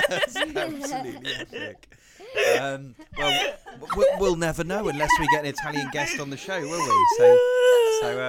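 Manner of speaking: talking through big laughs; laughing. Real, not acted. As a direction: laugh helplessly while speaking. Host laughing hard.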